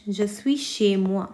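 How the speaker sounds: Je suis chez moi, spoken very slowly and evenly; slow French model sentence. Shown as a demonstration. Teacher reading French slowly to students. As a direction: spell out each word of the French for the class. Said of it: "in French".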